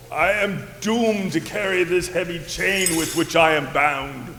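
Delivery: weird ghost voice. Acted. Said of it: "Doomed to talk in this weird voice".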